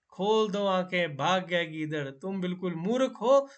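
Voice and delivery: tortoise scolds the fooled crocodile, loudly. Acted. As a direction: call out to the crocodile scolding him. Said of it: "कछुआ ऊंचे स्वर में".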